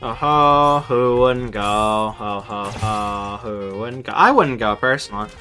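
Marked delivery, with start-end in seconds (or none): none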